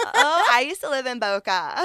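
high, loud mock delight; playfully overdone excitement; excited retold reply. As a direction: gush as if thrilled by the coincidence. Retold eager reply to the man.

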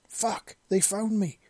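high, loud, slow panicked yell. A narrator's reading. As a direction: yell it as the shot lands. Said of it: "the man yelled".

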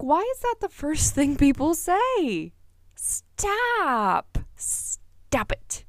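high, loud, fed-up mock rant imitating her own reaction; exasperated outburst. To people commenting on her weight, exasperated and loud. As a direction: snap it out like you've heard it one time too many. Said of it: "I'm like".

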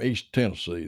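"Tennessee" with the weight on its first syllable; first-syllable emphasis. A narrator's reading. Bearded man telling John his home, "Tennessee" stressed on the first syllable. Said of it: "putting the emphasis on the first syllable".

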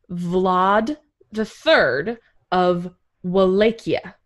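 Vlad said slowly with a broad ah, Vlad the Third of Wallachia; careful pronunciation. Shown as a demonstration. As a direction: spell out Vlad as Vlahd, unhurried. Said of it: "His name is pronounced Vlad".

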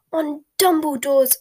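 loud, high, slow disbelieving echo; outraged. A narrator's reading. Bellatrix echoes Snape's excuse back at him, outraged. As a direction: throw the words back in outrage. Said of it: "in tones of outrage".

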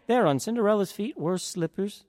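ordinary delivery

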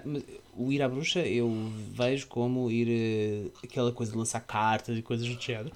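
talking through a yawn; words stretched by a yawn. Real, not acted. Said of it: "tu bocejaste e agora eu também bocejei".

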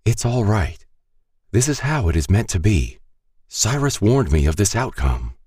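lightly voiced dying priest; a hint of a calm, fading old man; dying priest comforting the girl, lightly voiced; dying man's voice. A narrator's reading. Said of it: "Marie said".

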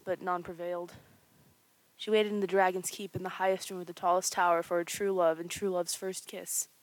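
once-upon-a-time narrator voice; storybook narration. Acted. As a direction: read it like a fairy tale. Reads fairy tale opening.

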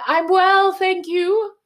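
put-on chirpy Australian accent reply. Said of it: "in an Australian accent".

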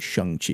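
Shang-Chi said "Shung-Chee", with an "uh"; Shang-Chi, first vowel as in "sung"; required pronunciation. Shown as a demonstration. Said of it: "you have to pronounce it".

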